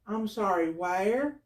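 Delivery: flat official phone manner; lightly voiced emergency operator; 911 operator.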